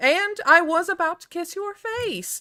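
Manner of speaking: very high-pitched, doting voice. Voicing Alyssa about to kiss her returning son: voicing Alyssa. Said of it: "she's like".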